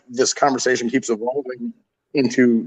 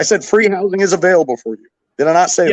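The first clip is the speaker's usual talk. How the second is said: getting mad; 3 semitones higher, faster than usual. Real, not acted. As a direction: push back, annoyed at being contradicted. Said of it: "why he got so mad".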